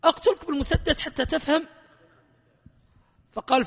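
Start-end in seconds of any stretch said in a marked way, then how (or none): 0.0-1.7 high, loud mock threat to a student; half-joking threat, pitched up and pushed louder. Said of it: "قلت". (تهديد ساخر بصوت عال ومرتفع)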